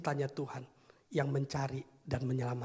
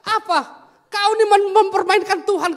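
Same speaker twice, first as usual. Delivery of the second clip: high, loud outraged rebuke; furious shout; 17 dB louder than usual. Acted. Pastor Peter rebuking the man who mocks God, furious shout. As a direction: yell it like a scandalised pastor.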